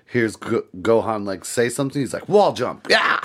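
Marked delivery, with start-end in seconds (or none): 2.3-3.2 high shouted move call; mock battle cry. Goku springs off the wall, high mock shout. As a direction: shout it like an anime attack.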